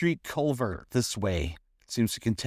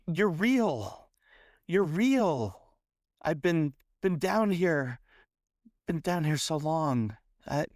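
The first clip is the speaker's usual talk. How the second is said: frightened captive; 4 semitones higher than usual. Acted. GM voices trapped frightened woman.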